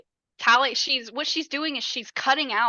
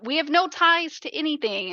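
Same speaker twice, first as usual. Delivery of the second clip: higher, eager rant; gushing mock excitement; 5 semitones higher than usual. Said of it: "She goes on this rant".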